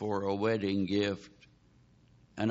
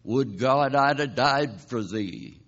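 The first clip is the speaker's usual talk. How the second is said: David's lament; 4 dB louder than usual. Retold or imitated. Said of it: "David said".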